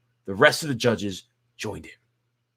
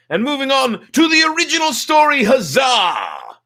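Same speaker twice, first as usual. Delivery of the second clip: much higher, loud cheer; excited huzzah; 10 dB louder than usual. Real, not acted. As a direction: celebrate moving on with a big shout. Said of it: "I got my huzzah".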